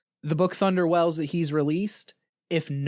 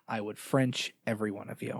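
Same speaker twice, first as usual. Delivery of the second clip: laughing; 5 semitones lower, 8 dB quieter than usual. Real, not acted. Laughing confession of love.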